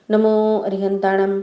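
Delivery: even, chant-like prayer recitation. Acted. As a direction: recite sacred verses in a steady tone.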